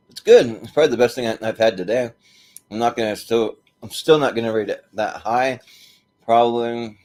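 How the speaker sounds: talking while chewing gummies; mouth full. Real, not acted. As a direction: speak through a mouthful of candy. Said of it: "excuse me for talking with my, my mouth full".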